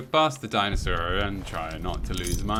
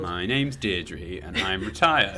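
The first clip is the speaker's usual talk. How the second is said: mock retired lady; slower than usual. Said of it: "Deirdres and, and Brendas".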